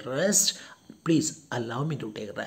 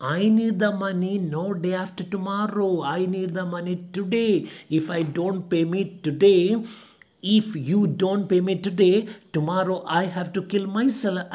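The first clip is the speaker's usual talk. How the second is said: fast, pressing, a bit louder; angry insistence; 5 semitones higher, 3 dB louder, faster than usual. Retold or imitated. Smirnov angrily insisting he needs the money today. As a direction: hammer home that it must be today. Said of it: "pays back in the same coin".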